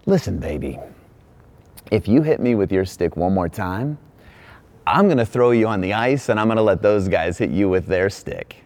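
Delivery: hammed-up low warning to a toddler; mock threat. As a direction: lean in low like a joking tough guy. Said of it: "I said".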